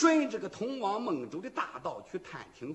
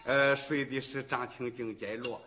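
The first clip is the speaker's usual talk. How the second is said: hushed, lower-pitched musing to oneself; quiet suspicious soliloquy; inner thought; 5 semitones lower, 6 dB quieter than usual. A narrator's reading. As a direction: think it through privately, under the voice. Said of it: "杨柳心说".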